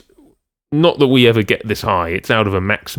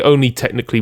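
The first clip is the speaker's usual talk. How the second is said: "technically" picked out with emphasis; stress on TECHNICALLY; 3 semitones higher, faster than usual. Real, not acted. Clarifying a remark to co-host, stress on "technically". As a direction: lean on the word "technically". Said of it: "the emphasis on the word technically".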